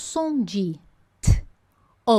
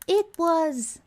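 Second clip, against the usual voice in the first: "It was special" very slow and higher; slow demo; 6 semitones higher, much slower than usual. Shown as a demonstration. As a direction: drawl it out as an example. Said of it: "ela foi de tal forma".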